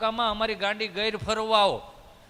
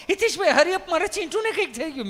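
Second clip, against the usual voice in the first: high, alarmed cry for help; a mother fussing over her child; panicked mother; 8 semitones higher than usual. Retold or imitated. (ગભરાયેલી મમ્મીનો ઊંચો સાદ)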